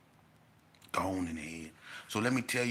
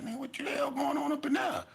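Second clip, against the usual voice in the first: startled shout. Retold or imitated. Narrator voicing startled onlookers.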